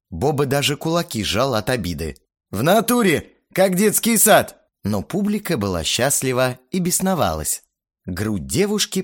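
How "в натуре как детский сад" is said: high, indignant complaining voice; offended whine. A narrator's reading. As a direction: complain like a sulky teen. Боба still offended.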